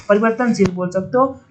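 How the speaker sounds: normal talking voice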